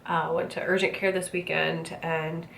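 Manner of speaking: out of breath, wheezing; wheezy, congested voice. Real, not acted. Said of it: "I apologize for the wheezing kind of sound you're hearing".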